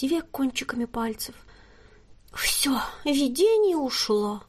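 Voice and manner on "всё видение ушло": slow, whispered mock-tragic lament. A narrator's reading. Fortune teller ending her act in a slow tragic whisper. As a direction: sigh that the vision is gone. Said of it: "трагическим голосом произнесла она".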